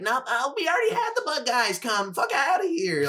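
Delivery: high-pitched irritated mom voice; mom rebuffing solicitors. Retold or imitated. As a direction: mimic a fed-up mom shooing someone off. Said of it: "You should see my mom talk to solicitors".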